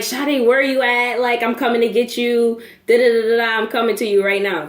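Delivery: mad mother. Retold or imitated. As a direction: lay down orders like an angry mother. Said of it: "I knew she was mad as hell".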